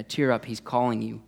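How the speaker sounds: calm, gentle encouragement; easy reassurance in an unraised voice; changed, kinder tone. Retold or imitated. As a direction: say it evenly, as good news. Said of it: "somehow their tone changes".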